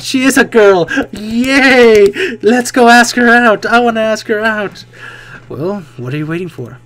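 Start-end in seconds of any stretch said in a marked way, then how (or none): 0.0-4.8 loud, high, giddy cheering; excited cheer. Real, not acted. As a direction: cheer like you just saw your crush. Excited reaction to cute character.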